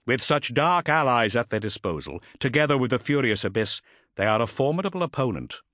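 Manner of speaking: a hint of formal briefing; Ultramarine captain addressing council. Voices Cestus addressing the council.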